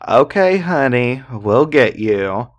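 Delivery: sing-song taunting okay honey; mock the woman calling for help; super mocking tone. Drunk man taunting a woman in a mocking tone. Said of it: "in this super mocking tone".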